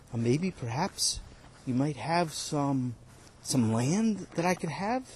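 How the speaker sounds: slow, soft, hesitant begging; pleading worker. Acted. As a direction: drag out each maybe, humbly.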